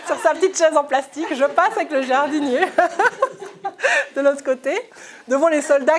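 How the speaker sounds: parle en riant aux éclats, plus haut et plus fort; fou rire. Real, not acted. Revoit Abou Naïm sur sa chaise. (en pleine crise de fou rire)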